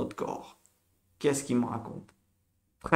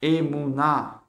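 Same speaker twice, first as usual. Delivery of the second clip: slow Hebrew word; 4 dB louder, slower than usual. Shown as a demonstration. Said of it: "Emouna, ça veut dire la foi".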